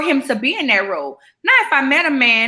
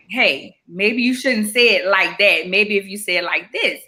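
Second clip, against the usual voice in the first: delicate, gentle advice; 3 semitones lower than usual. Retold or imitated. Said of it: "someone to be delicate with us".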